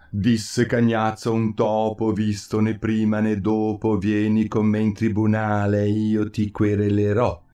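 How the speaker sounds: rhythmic rhyming verse reading; storyteller reciting a nursery rhyme; poem recital. A narrator's reading. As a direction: lilt the rhymes along in verse. Rhymed poem read within story.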